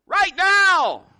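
high, loud shouted call; acted yell, falling at the end; echoing yell. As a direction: shout it across a mountain. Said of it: "a voice comes back".

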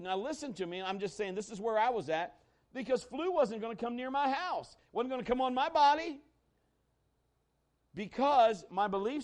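full-force preaching. Acted. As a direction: rise and drive it home to the congregation.

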